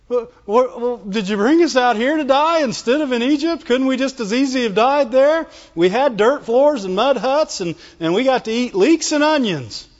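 lightly hammed-up bellyaching; whining. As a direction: imitate a grumbler piling up complaints. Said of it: "And they're whining".

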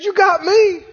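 playful brag to his wife; husband's boast. Acted. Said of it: "He said".

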